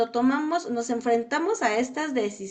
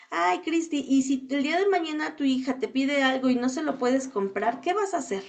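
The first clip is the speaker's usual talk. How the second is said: worried cousin; 3 semitones higher than usual. Retold or imitated. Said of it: "Había primas que me decían".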